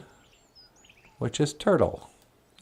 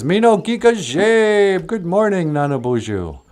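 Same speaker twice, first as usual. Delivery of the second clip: lightly voiced bear; 4 semitones higher than usual. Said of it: "Wally Bear says".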